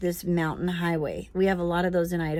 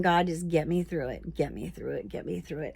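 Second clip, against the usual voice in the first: whispered prayer; 3 semitones lower, 6 dB quieter than usual. Retold or imitated. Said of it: "and I'm just praying".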